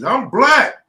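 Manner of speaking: BLACK punched high and loud; emphasis on black. Retold or imitated. Telling the inmate he is black, strong emphasis. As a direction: lean hard on black. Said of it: "I'm putting emphasis".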